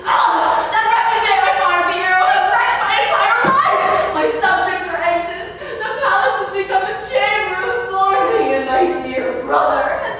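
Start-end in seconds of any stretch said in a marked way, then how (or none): 0.0-4.1 anguished outcry. Acted. King laments his fate.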